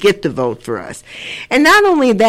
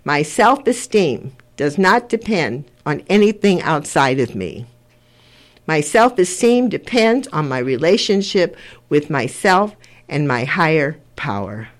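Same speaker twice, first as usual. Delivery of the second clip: measured pledge, falling away at each line's end; 3 semitones lower than usual. Shown as a demonstration. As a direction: recite line by line for others to repeat. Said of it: "I'm gonna say it line by line".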